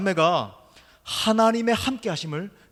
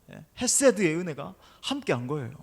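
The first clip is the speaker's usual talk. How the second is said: ordinary talk, nothing marked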